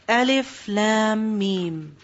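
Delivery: Alif Lam Mim recited slowly, each letter held apart; drawn-out recitation. Shown as a demonstration. Teacher recites Alif Lam Mim to the class, slow and separate. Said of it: "reads the opening letters".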